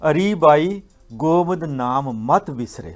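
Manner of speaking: slow, emphatic verse quotation; scripture recitation. Retold or imitated. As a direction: recite the holy line word by word. Quotes a scripture line. (Gurbani ਦੀ ਤੁਕ ਦਾ ਹੌਲੀ ਉਚਾਰਨ)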